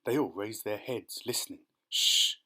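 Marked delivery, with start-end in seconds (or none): 1.9-2.4 sharp whispered shush; hush. Acted. James hushes the others to hear the voice, whispering. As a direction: silence everyone at once.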